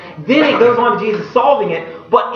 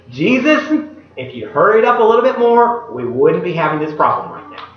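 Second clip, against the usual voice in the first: complaining. Retold or imitated. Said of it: "Both sisters say the exact same thing".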